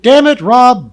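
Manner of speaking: loud furious bark; sharp furious rebuke. Acted. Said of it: "Dub barked".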